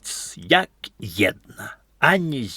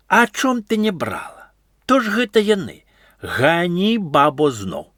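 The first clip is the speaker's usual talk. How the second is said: higher, reproachful scolding; wizard scolding; 7 semitones higher than usual. A narrator's reading. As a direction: tell her off and send her again. Wizard scolds the old woman. (чараўнік вышэй і з дакорам лае бабу)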